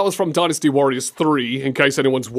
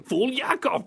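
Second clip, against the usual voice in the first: higher mock villain voice; big nasty guy; 6 semitones higher, 4 dB quieter than usual. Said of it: "the big nasty guy was saying".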